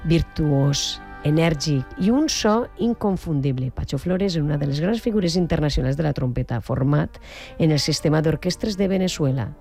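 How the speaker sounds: measured presenter's read, emphatic phrase openings; radio introduction. Acted. Radio host presenting a celebrated trumpeter to listeners, announcer style. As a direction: build up the guest with deliberate pauses.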